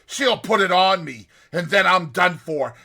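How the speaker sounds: high, loud dread; a doomed man's panicked cry. Retold or imitated. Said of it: "Next he cries".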